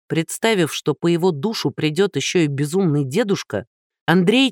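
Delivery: ordinary delivery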